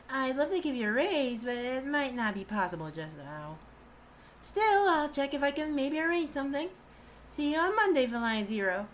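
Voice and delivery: a man voicing a polite young woman; girl voice. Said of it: "the girl voice again".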